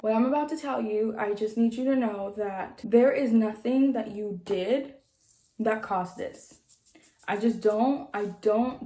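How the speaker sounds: measured, careful bad-news delivery; imitated grave reassurance. Doctor breaking heavy news to a patient, gently grave. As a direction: ease into it, with halting pauses.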